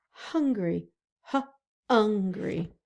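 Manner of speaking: Hungry with the short u stretched; vowel demo. Shown as a demonstration. Teacher to kids, listening for the short u. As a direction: lean on the u in Hungry. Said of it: "what about the word hungry?".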